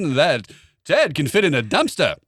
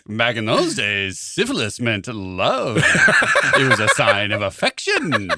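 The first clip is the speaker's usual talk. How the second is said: put-on slow announcer voice of the old days; old-time radio voice; 3 semitones lower, much slower than usual. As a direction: read it slow like a vintage radio host. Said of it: "in your old-time radio voice".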